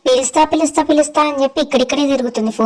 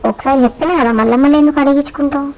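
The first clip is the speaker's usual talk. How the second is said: cheeky sulky pet voice; a lightly put-on sassy pet; voiced pet; 3 semitones higher than usual. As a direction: talk back like a spoiled pet. Pet talks back to owner.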